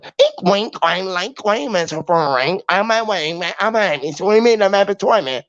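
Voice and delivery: lightly put-on Chinese accent, nonsense rhyming; hint of a mock Chinese accent. Switching it up on the translator, in a loose mock Chinese accent. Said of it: "like a Chinese man and sound like one".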